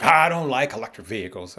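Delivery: lightly voiced sister resisting new things; mild put-on grumble, imitating her; buddy's sister. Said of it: "she don't like nothing new".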